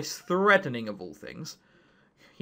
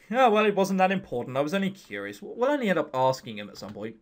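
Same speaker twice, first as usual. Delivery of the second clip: voiced male student. Voicing a character's dialogue.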